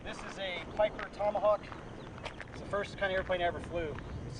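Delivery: far off from the mic; distant, faint voice; across the room. Real, not acted. Speaker moved away from camera.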